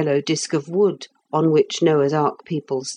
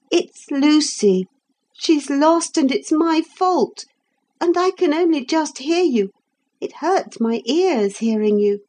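put-on high-pitched upset boy; complaining; 11 semitones higher than usual. A narrator's reading. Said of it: "complained Philip".

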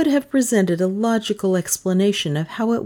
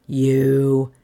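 shout; 4 semitones lower than usual. A narrator's reading. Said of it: "he shouted".

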